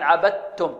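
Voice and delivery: عبدتم with d wholly turned to t; full assimilation. Shown as a demonstration. Teacher shows pupils complete merging, pure double t. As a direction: say عبدتم as "abat-tum". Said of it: "يصير تاء".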